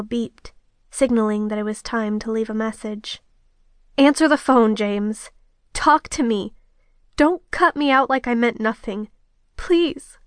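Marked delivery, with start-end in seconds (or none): 4.0-9.1 desperate demand. Acted. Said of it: "You can stop yelling now". 9.6-10.2 higher, pleading crack in the voice; a desperate, cracking plea. Acted. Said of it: "My voice cracked".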